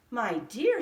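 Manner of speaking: put-on loud startled old woman; old woman exclaiming to her husband; crying out. A narrator's reading. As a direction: call out in alarm. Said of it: "she cried".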